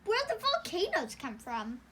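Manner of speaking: loud, rising disbelief; incredulous. Real, not acted. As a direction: challenge the detail, astonished. Sister objects to the volcanoes.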